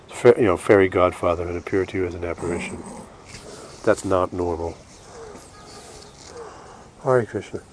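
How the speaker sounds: speaking between breaths, short of breath. Real, not acted. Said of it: "I'm a little short of breath".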